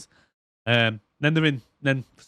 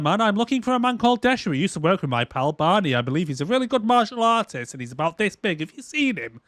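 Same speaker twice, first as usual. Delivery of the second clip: lightly mocking, higher sing-song chatter; over-eager oversharing; 6 semitones higher than usual. Christmas info-dumping on the bartender, mock eager. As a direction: babble eagerly as a clueless oversharer.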